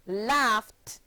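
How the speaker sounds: "laughed" as one syllable, ending in a crisp t. Shown as a demonstration. Teacher models past tense for pupils, "laughed" ending in t. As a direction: close "laughed" on a voiceless t, no extra syllable. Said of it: "forming only one syllable".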